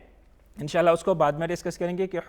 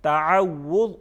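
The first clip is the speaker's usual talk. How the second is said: louder, measured title announcement; recitation announcement; 5 dB louder, much slower than usual. Shown as a demonstration. Teacher announces what pupils recite next, formal and measured.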